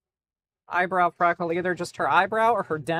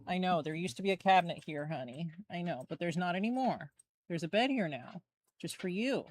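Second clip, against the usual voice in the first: softer, quicker reassurance to the dog; softer voice consoling the dog about the missing cabinet; consoling pet voice; 6 dB quieter than usual. Real, not acted. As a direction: comfort him about the change. Consoling dog about new bed.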